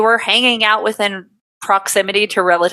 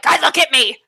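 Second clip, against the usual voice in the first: mock cop call; 6 semitones higher than usual. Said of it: "you're like".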